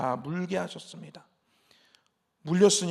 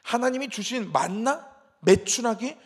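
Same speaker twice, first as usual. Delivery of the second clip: imitated grumbling, pushed louder and higher; scornful complaint; 3 semitones higher, 4 dB louder than usual. Israelites belittling the food God gave, mock scornful complaint. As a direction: act out ungrateful protest. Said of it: "이렇게 얘기합니다".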